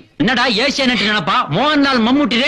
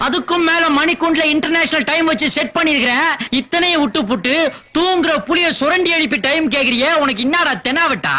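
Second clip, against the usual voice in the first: higher-pitched, indignant tirade; exasperated scolding; 5 semitones higher than usual. Acted. Man scolding the friend who woke him to ask the time, exasperated. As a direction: berate him in a raised pitch.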